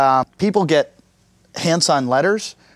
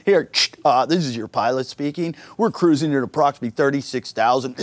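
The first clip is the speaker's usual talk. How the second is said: pilot announcement. Retold or imitated. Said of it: "I wouldn't wanna be on that plane".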